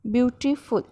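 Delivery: "ब्यूटीफुल" lightly segmented as ब्यू-टी-फुल; teacher recombining "ब्यूटीफुल", syllables still distinct; three-part pronunciation. Shown as a demonstration. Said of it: "इस तरह से हमने इसको तीन part में प्रोनाउंस किया".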